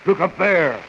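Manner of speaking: alarmed cry. Acted. Prince spots hawkmen above his friends, alarmed cry. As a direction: sound the alarm at attackers overhead. Spotting attackers in the sky.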